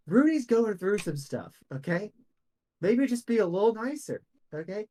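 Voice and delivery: high-pitched, mildly loud stage aside; an aside with no attempt to whisper. Bill excuses Rudy to the hobgoblin, high, mildly loud aside. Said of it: "very loudly goes".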